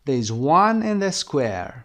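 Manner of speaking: slow, stress on "one" and "square"; rhythm model. Shown as a demonstration. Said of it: "copy the rhythm". (ریتم جمله با تأکید)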